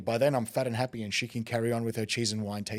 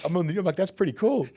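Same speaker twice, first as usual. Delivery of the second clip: higher and louder, thrilled at seeing himself; amazed excitement; 8 semitones higher, 5 dB louder, faster than usual. Retold or imitated. Watching himself on the news, higher and louder in amazement. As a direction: gasp it out like you just saw yourself on TV.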